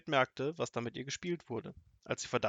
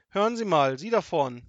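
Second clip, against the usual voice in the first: high, loud challenge; called out; 5 semitones higher, 10 dB louder than usual. A narrator's reading. Suspicious grandmother to the man up front, calling out loudly. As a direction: call sharply to someone in front. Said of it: "rief sie".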